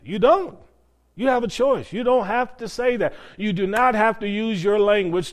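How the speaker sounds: rising insistence. Real, not acted. Preacher pressing the point.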